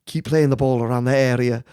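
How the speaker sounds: put-on manager quote slipping into a camp European accent; botched impression with a hint of German; accidental Euro accent. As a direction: let a European accent creep in. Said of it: "the Euro game was, was creeping into".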